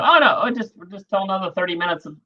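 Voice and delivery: airy mock nonchalance, starting high; breezy dismissal. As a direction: imitate someone casually brushing it off. Mimics clueless non-comedians brushing it off.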